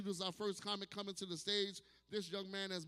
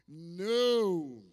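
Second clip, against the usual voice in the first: sharp loud No; 9 dB louder than usual. Acted. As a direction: shout the word no. Emphatic denial in story.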